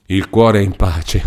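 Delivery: slow, bitter repeating of her words; bitter echo. Acted. Renzo bitterly echoes Lucia's words, slow. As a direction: spit her phrase back slowly.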